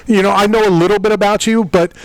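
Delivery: slipped Irish accent. Real, not acted. Host unwittingly copying the Irish fighter's accent. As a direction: let a Northern Irish lilt creep in by accident. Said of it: "I almost sounded like him there".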